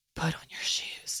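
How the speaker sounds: very soft, terrifying, scary whisper. Sharing a trick with listeners, the speaker acts out her scary whisper. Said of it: "I whisper".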